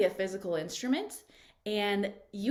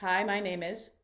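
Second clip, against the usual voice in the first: eyebrows down. Shown as a demonstration. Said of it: "Eyebrows down".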